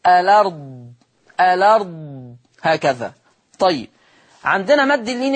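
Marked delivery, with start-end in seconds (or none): 0.1-3.1 الأرض as alard, vowel moved onto the lam; transferred vowel. Shown as a demonstration. Teacher showing Warsh transfer to the class. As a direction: say الأرض without the hamza, lam open. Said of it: "وأحط الحركة بتاعتها على اللام".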